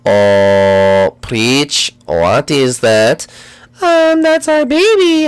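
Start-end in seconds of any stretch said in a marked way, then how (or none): 0.1-3.3 very low, slow spooky voice; deep eerie ghost. Acted.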